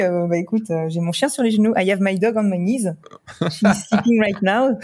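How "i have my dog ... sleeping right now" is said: English with a French accent; playful French-accented English, slowing at the end. Shown as a demonstration. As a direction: speak English like a French person. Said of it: "with a French accent".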